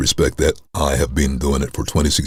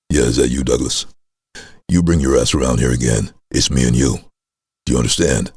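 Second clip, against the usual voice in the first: deep menacing voice; 3 semitones lower than usual. Retold or imitated. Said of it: "I realized I had a bit of power".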